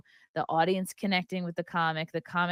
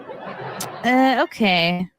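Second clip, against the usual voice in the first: laughing; 4 semitones higher, 8 dB louder, much slower than usual. Real, not acted. Reacting to the Carlin clip.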